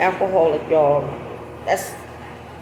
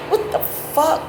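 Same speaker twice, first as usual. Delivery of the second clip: laughing in disgust; 9 semitones higher, slower than usual. Real, not acted. Laughing at dirty underwear.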